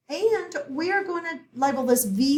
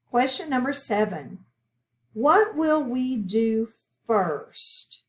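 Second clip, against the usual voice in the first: put-on reading to children; 3 dB louder than usual. Teacher reads a short story to pupils, deliberate read-aloud. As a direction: read it out carefully, phrase by phrase.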